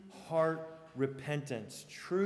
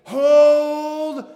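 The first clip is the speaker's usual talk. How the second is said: much louder, higher drawn-out shout of hold; William Wallace battle command; 11 semitones higher, 21 dB louder than usual. Retold or imitated. Wallace shouting to his men as cavalry charges, commanding. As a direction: command the line to stand firm. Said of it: "he's telling everyone".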